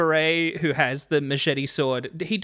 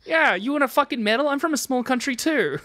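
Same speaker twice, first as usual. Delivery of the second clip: high-pitched playful scoff; sarcastic huff, half laughing; mock indignation; 7 semitones higher than usual. Continuing mock rant.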